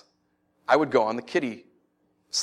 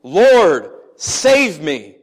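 cry for help; 3 semitones higher, 8 dB louder, much slower than usual. A narrator's reading. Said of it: "Peter cried out".

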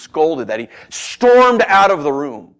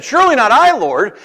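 high, loud, acted protest of innocence; anxious denial; 9 semitones higher, 7 dB louder than usual. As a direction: blurt a high, disbelieving denial. James anxiously denies being betrayer.

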